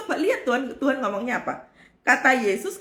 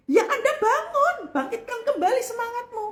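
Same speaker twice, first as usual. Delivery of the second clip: laughing; 11 semitones higher than usual. Real, not acted. Laughing exhortation.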